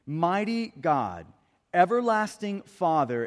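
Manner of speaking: measured reading, stretching the titles; scripture reading. Acted. Preacher reads Isaiah's prophecy to the congregation, measured and solemn. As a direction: read the verse solemnly, phrase by phrase.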